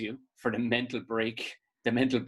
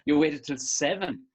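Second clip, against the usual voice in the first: rising mock outrage, seven drawn out; mock indignant; 4 semitones higher, 3 dB louder, slower than usual. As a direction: play it as fake offense at being last.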